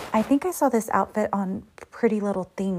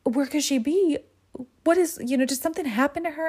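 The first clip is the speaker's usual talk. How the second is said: higher, panicky rapid questions; mock frantic worry; hammed-up alarm over the girl; freaking out; 6 semitones higher, faster than usual. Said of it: "Pepita freaks the fuck out".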